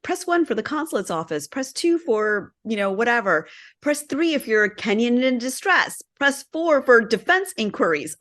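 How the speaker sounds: recorded phone menu announcement; automated phone menu. Retold or imitated. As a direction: read it like a phone tree recording. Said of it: "they had this automated thing".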